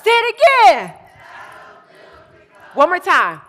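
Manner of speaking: high, full-voiced hype yell; rousing shout. Real, not acted. Speaker driving youth through another repeat, rousing shout. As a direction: belt it out to whip up the crowd. Urging crowd to chant again.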